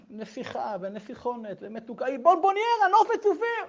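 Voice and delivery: mock bawling father. Father gushes over his daughter, mock bawling. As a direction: build up into a hammed-up tearful gush. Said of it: "והתחיל לגעת".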